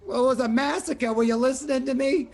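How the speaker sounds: high, indignant gnome voice; irritated gnome. Acted. Gnome Billy scolding the party for not listening, indignant. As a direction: snap back at them, impatient.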